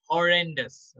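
"Horrendous" said with care, stress on REN; pronunciation model. Shown as a demonstration. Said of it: "इसका जो pronunciation होगा".

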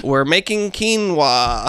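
lightly done impression, words stretched out; David Lynch. Podcaster trying the impression on co-host, slow and drawn out. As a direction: stretch each word in a slow imitation. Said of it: "do a great David Lynch impression".

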